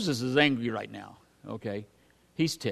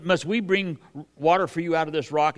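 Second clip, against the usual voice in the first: louder, higher, indignant "Must we bring water"; Moses' indignant retort; 4 semitones higher, 5 dB louder than usual. Acted. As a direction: fling the question at the people. Preacher acts Moses at the rock.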